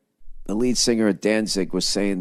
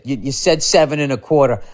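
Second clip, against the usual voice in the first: quoting clerk; 6 semitones higher than usual. Retold or imitated. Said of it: "when he said".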